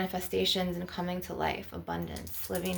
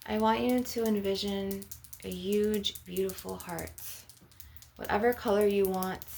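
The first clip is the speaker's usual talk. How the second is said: guided meditation; 3 dB quieter than usual. Real, not acted. Healer leading listeners through a heart chakra visualization, guided meditation. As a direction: guide them gently into the image, unhurried.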